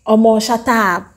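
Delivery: a loud, jokey friendly shut up; playful shut up. Shown as a demonstration. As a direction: banter with a friend, all in fun. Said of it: "there's a certain "shut up".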